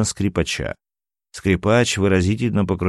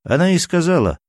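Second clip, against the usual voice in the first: smirking; 10 semitones higher, faster than usual. Acted. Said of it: "усмехнулся Карин".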